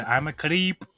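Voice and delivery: put-on sung in an Indian accent. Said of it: "sing the song ... in an Indian accent".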